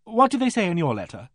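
a sharp, sudden ask; abrupt question. Acted. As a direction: blurt it out abruptly. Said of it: "asked abruptly".

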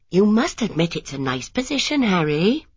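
a hint of a cheerful young wife; young wife Lily. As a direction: coax him about the house. Lily persuading husband at window.

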